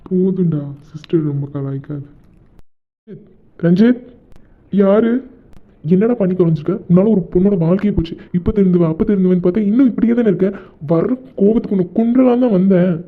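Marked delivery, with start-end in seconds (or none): 3.6-12.9 angry scolding. Acted. Friend scolds Ranjith in anger.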